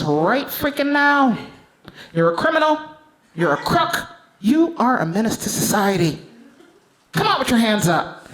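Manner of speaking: lightly voiced police negotiator ordering her out; a hint of a bossy officer barking commands; stern cop on a megaphone.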